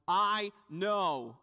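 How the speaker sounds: a hint of an annoyed wife; irritated wife. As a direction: snap back, fed up. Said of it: "little bit of different tone, some anger".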